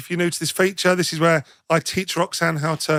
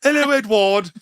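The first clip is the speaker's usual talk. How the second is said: lightly voiced posh lady, a little higher; posh lady at the zoo; 4 semitones higher than usual. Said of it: "God, you have never sounded sexier".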